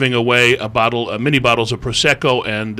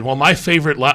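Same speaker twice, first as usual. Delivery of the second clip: higher-pitched, lightly voiced famous cook; Julia Child; 4 semitones higher, 3 dB louder than usual. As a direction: start a slight impression, then drop it. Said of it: "I'm not gonna do an impression".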